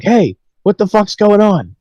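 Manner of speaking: high, slow mock indignant demand; confronting counselor. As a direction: imitate a counselor catching kids out, drawn out. Retold counselor confronts the boys.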